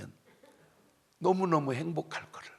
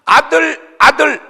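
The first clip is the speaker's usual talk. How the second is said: very high, very loud shout on each word; 18 dB louder, slower than usual. Shown as a demonstration. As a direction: punch out each word at full voice. 아들만 둘인 경우를 강조해 외침. (아주 높고 우렁차게 내지르기)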